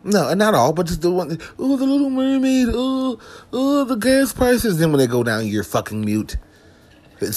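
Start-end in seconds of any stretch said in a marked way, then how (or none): 1.6-4.8 high-pitched mocking complainer voice; mock whiner. Comic mocking people who moan about mermaids and gas prices, mock whining.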